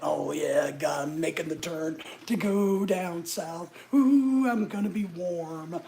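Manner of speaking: imitating how excited the brain was; mock excited inner voice.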